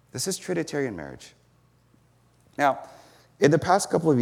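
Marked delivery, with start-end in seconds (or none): 0.1-1.3 much softer, letting "This is Trinitarian marriage" settle; quiet restatement. Shown as a demonstration. Preacher echoing his thesis to the congregation, much softer. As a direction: repeat it gently so it sinks in.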